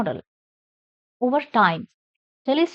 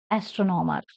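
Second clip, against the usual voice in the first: "astronomer" stressed on "tron"; third-last syllable stressed; 4 semitones lower than usual. Shown as a demonstration. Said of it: "stress the third syllable from the end".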